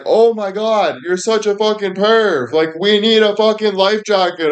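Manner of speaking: high, put-on girlfriend voice, teasing; high mock girlfriend voice. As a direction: mimic her scolding you as a perv. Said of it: "And she's like".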